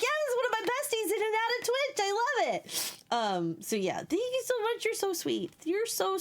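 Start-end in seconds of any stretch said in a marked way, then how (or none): 0.0-2.9 retold excitement. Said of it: "I was just like".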